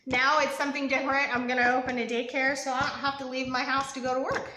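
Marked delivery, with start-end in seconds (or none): 2.6-4.5 laughing. Real, not acted. Laughs at own joke.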